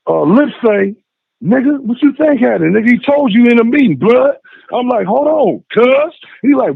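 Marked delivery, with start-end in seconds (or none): 1.4-4.4 raised, higher-pitched challenge, retold; mock angry challenge, pitched up; confrontational retort. Retold quarrel at door. 5.1-6.1 higher, firm hold on; mock stern warning, pitched up; retold warning. Retold quarrel at door.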